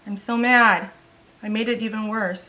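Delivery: ordinary talk, nothing marked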